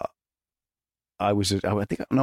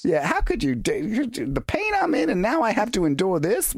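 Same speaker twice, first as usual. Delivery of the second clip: mock anguish; 7 semitones higher than usual. Continues mock-wounded complaint.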